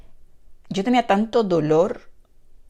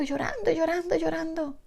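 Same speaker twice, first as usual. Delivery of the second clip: high, strained echo of crying; tearful retelling; 10 semitones higher than usual. Retold or imitated. Mother telling her little girl of her sin, retold tearfully. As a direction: relive the weeping, pitched well up. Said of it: "yo le decía esto llorando".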